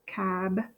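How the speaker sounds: "Cabinet" split as cab, uh, net; softly broken-up "Cabinet"; syllable by syllable. Shown as a demonstration. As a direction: sound out "Cabinet" with long gaps. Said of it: "I'm gonna do cabinet next".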